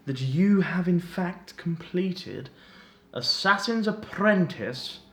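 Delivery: lightly voiced gloating villain, drawn out; theatrical captor. Captor confronts his prisoner about the finished book, mildly theatrical villain. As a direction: toy slowly with your captive, lightly villainous.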